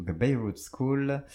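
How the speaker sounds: "The Beirut School" in a slow, careful English accent. Shown as a demonstration. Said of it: "Je prends un accent anglais pour le dire".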